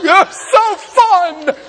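mock slow motion, laughing. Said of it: "I did it in slow-mo".

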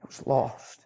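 breathy near-whisper of the words; hushed repeat. Real, not acted. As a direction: let it drop to a hush.

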